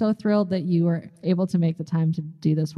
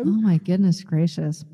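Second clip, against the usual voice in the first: grandma voice; 3 semitones lower than usual. Pretend. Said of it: "I sound like my grandma".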